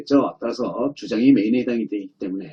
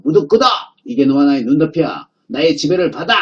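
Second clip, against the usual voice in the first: mock-domineering call, pitched up at the start; commanding shout. The main idea ordering the other sentences around, mock commanding shout. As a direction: proclaim it like a boss laying down the rule. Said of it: "이 메인이 외치는 거죠".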